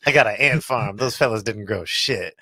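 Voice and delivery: lightly imitated deadpan comedian; Mitch Hedberg. Fan retells an ant farm joke, Mitch Hedberg voice. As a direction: give a touch of the one-liner comic. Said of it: "he talked like that".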